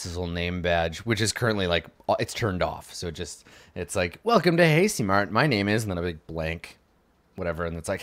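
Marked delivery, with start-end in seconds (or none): 4.2-5.8 canned store greeting. Acted. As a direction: recite it like a talking name badge. Name badge recites its greeting.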